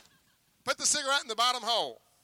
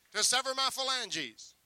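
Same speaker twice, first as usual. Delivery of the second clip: slow, careful dictation; slow, deliberate dictation so the kid can follow; slowed down on request; 4 semitones higher, slower than usual. Shown as a demonstration. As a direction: spell it out slowly for the volunteer. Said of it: "Slow down".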